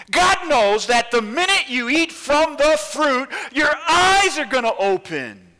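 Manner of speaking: high, loud scoffing voice; mocking tempter. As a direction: laugh off her fear, loudly. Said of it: "the voice says".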